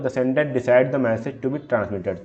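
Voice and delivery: reading the slide slowly and deliberately; slow, careful slide reading; slow read-aloud. Shown as a demonstration. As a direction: dictate each word of the definition.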